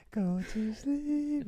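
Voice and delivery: very high, soft, slow Cockney lilt; Cockney accent. Pretend. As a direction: coo it in Cockney. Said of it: "In a Cockney accent".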